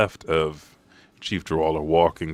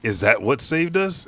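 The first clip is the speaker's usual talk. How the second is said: startled cry; 9 semitones higher, 6 dB louder than usual. Retold or imitated. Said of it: "someone says".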